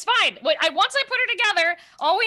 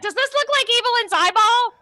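pitched up, eager question; high curious voice; 7 semitones higher, 5 dB louder than usual. Acted. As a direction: ask it brightly and eagerly. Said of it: "she's like".

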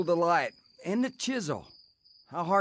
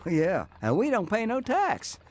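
laughing; 4 semitones higher than usual. Acted. Bootlegger boasting about profits.

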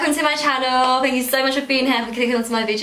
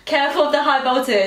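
garbled through a mouth guard; mouth propped open; faster than usual. Real, not acted. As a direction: say it with lips forced apart. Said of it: "I cannot hear a word".

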